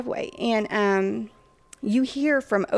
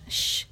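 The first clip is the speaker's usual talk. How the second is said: soft drawn-out shh to hush the group; shushing; 4 dB quieter than usual. Retold or imitated. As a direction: shush everyone quietly. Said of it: "I keep doing the shh sound".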